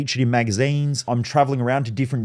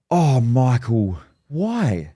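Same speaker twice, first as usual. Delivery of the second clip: pleading mum; much slower than usual. Retold or imitated. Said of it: "I remember she said".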